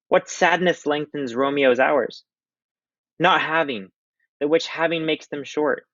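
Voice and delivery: high, slow, drawn-out lovesick voice; mopey Romeo. Acted. Reading Romeo to the class, high and slow and lovesick. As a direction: sigh each line like a heartbroken boy. Reads play dialogue.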